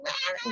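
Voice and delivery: high, soft mock wail; mock cry of being overwhelmed. Shown as a demonstration. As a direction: demonstrate an overwhelmed outburst, held back in volume. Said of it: "no a nivel de sobrepaso, así".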